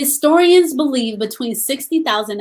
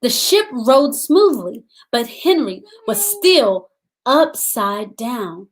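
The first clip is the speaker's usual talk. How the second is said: put-on gentle read-aloud for young children; storybook reading; slower than usual. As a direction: read the story to the class, unhurried. Teacher reads picture book aloud.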